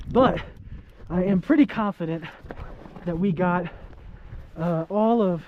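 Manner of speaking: muffled through a face mask; talking muffled behind a mask. Real, not acted. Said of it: "Sorry about the muffled voice".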